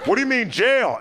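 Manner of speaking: high, hammed-up partner's whine; mock partner. Comic to roommate, high mock-girlfriend alarm. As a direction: play the upset partner.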